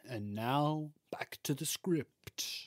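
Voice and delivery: soft, slow public-radio host; smooth jazz radio voice. Pretend. Podcast host leading back into the script, smooth jazz radio voice. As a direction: ease it out slowly and quietly, late-night radio style. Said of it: "like, smooth jazz radio voice".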